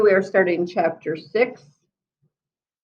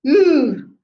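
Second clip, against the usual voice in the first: scared; 8 semitones higher, 6 dB louder than usual. Acted. Reader reacts to snakes.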